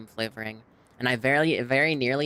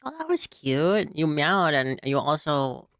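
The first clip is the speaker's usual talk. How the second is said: higher, slow doting coo; cooing to cat; 4 semitones higher, slower than usual. Real, not acted. Talking to her cat.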